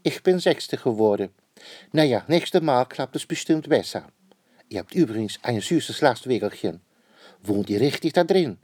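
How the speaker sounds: a hint of a bubbly royal lady; the queen. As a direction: chatter excitedly about the contest. Queen's voice in story.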